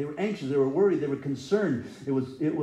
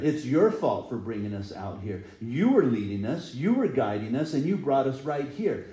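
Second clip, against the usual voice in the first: mock blame; 4 dB louder than usual. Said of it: "they're blaming Moses and Aaron".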